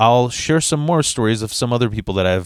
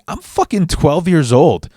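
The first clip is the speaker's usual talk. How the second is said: put-on a kid's outraged comeback to a grown man; indignant retort; 4 semitones higher than usual. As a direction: throw it back at him, incredulous. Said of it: "self-aware enough to be like".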